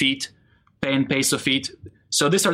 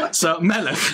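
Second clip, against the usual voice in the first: laughing through it; 2 semitones higher than usual. Real, not acted.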